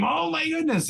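very high squeal without extra volume; high, mock-screamed delight; mock excited scream. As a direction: act out a held-in scream of joy.

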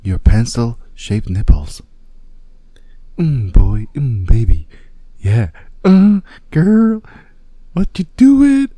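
lightly voiced seductive woman; breathy come-on, barely put on; female catfish voice. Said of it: "your best female catfish voice".

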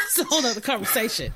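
quick words tumbling out through laughter; laughing aside. Real, not acted. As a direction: rush the aside while laughing. Laughing repeat of her aside.

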